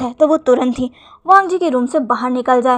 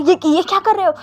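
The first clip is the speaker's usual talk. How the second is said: stammering, a little higher and flustered; 5 semitones higher than usual. A narrator's reading. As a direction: caught off guard, trying to hush him. Husband panics at the fake crying.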